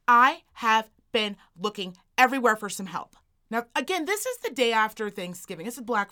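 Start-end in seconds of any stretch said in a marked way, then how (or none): 0.1-3.2 mock-indignant, word-by-word complaint; demanding customer. Older shopper complaining to a supposed worker, mock-indignant. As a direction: punch it out loudly, imitating an exasperated shopper.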